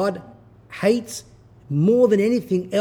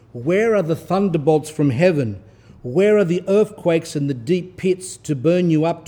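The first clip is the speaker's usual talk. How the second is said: rising, declaiming sermon read; fervent scripture-style reading; preaching reading. Acted. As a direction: proclaim the text to the flock. Reads saint's rebuke, preaching.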